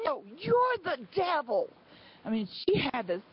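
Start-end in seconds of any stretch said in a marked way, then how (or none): 0.1-1.7 high, drawn-out mock retort; retold yelling. Angry woman refusing to listen, high mock yell. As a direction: throw it back in a high imitation yell. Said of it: "she was screaming and yelling all the way".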